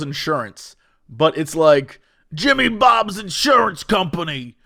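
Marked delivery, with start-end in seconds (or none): 2.3-4.6 radio ad shout. Retold or imitated. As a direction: bellow the company name like a pitchman. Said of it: "a guy who's on the radio".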